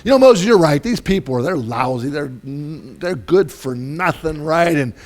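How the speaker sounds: high, loud, fed-up God ranting; God paraphrased. Retold or imitated. God ranting to Moses about the people, exasperated. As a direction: fume about the useless people. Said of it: "He goes".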